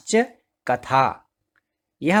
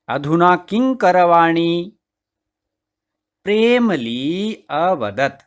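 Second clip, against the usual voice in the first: even storybook reading at normal pace; reading the passage aloud. Shown as a demonstration. Teacher reads the Sanskrit story to the class, flowing reading. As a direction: read it through once so they hear it. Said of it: "सर्वप्रथम अहम पठामि, पहले मैं पढ़ता हूँ".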